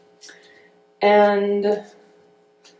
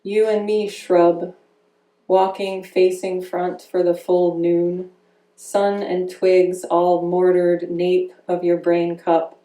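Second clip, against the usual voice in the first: measured, deliberate poem recital; poetry reading. Acted. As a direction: give each image its own weight, reading to an audience. Reads her poem in parts.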